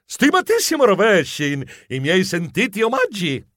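a touch of pompous formality; overly formal. Acted. Geronimo rehearses greeting his idol, overly formal. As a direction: pay solemn homage, slightly overdone. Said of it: "troppo formale".

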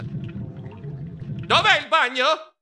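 high, stretched-out wail; desperate cry. Acted. Mouse with churning guts seeking the bathroom, desperate cry. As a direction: cry out in urgent need.

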